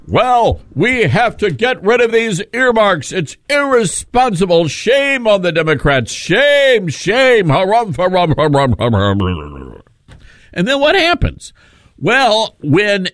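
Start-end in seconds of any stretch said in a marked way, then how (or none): 0.1-7.5 higher pompous politician voice. Retold or imitated. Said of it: "In public, they have been critical". 7.5-9.8 blustery harumph, trailing off; pompous harumphing. Retold or imitated. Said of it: "In public, they have been critical".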